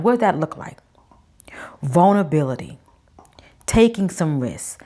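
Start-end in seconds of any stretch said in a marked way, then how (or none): 1.8-2.8 breathy whisper on the word. Real, not acted. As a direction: whisper it like a secret. Key word stressed, whispered.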